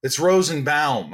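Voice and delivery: Rosenbaum slowed, ending as "bowm"; dad correcting to BAUM. Retold or imitated. Dad corrects his son's pronunciation, stressed "bowm" ending. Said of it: "I'm not saying Rosenbaum".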